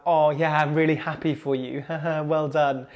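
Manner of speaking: mock congratulations with a put-on laugh; fake happiness. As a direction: act insincerely happy for someone. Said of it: "I'm talking about genuine happiness".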